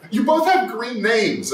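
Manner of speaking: laughing loudly through the words, slowed. Real, not acted. Streamer laughing at chat names he can't read. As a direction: blurt it out mid-laugh.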